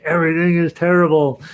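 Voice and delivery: high, loud mock panic; comic mock despair; inner panic. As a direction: let the inner dread burst out, hammed-up. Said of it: "inside I'd be like".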